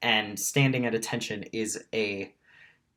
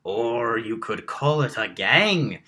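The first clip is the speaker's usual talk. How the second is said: slow, drawn-out suggestion; lightly voiced shapeshifter, stretching the words; 3 dB louder than usual. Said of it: "says the shapeshifter".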